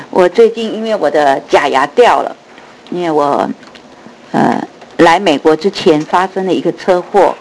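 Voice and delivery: lisping through loose false teeth; loose dentures. Real, not acted. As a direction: speak with a missing front tooth. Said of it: "所以讲话有点漏风". (假牙松动漏风)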